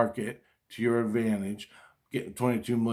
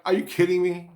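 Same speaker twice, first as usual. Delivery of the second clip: disbelief; 5 semitones higher than usual. Retold or imitated. Shocked at the tax.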